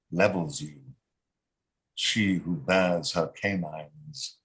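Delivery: measured poem reading, phrases dropping away; poetry reading. Acted. Poet reading his Amtrak poem to the group, measured poetry reading. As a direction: read it slowly in short phrases with pauses.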